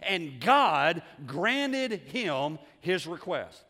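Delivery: slow, heavily stressed preacher delivery; forceful preaching. Real, not acted. Preacher asks congregation why God interrupted the genealogies, emphatic. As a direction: drive the point home, stretching key words.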